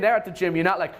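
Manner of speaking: usual speaking voice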